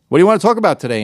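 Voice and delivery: high, loud hammed-up mock podcaster; mock lazy host. Mocking careless podcasters, a loud high hammed-up host. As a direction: ham up a clueless host kicking off a show.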